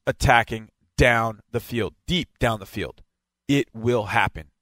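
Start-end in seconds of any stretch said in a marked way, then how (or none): 3.5-4.5 slow, weighty emphasis on "will"; deliberate punch on "will"; stress on WILL. Real, not acted. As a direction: lean on the word "will", taking it slowly. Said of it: "And I stress the word will".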